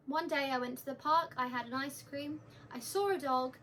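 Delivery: reading lines without performing; just say the lines, no acting; unperformed line reading. Shown as a demonstration. Teacher demonstrating a phone recording of lines, unperformed reading. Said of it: "I'm not performing it, I'm not making it a big thing".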